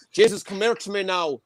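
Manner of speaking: hammed-up Irish come-on; proper Irish dirty talk. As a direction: play a rough Irish lad coming on to someone. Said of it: "like, a proper Irish for, like".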